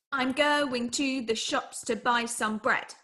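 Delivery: slow, each second syllable stressed; spoken carefully in dee-dum rhythm; iambic sentence. Shown as a demonstration. Student trying an everyday line in verse rhythm, slow. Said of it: "Try it".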